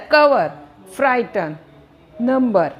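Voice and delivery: कवर, फ्राइटन, नंबर each front-stressed with a light ending; unstressed final syllable. Shown as a demonstration. Teacher showing last syllable unstressed, front-stressed कवर, फ्राइटन, नंबर. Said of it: "last वाले पे stress नहीं आया".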